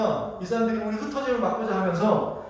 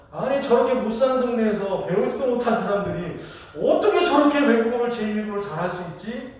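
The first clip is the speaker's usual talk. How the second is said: mock condescending astonishment; disdainful disbelief; 3 semitones higher than usual. Crowd marvels at uneducated Galileans speaking languages, mock disdainful. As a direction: act out looking down on the uneducated. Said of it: "이게 지금 무시하는 겁니까?".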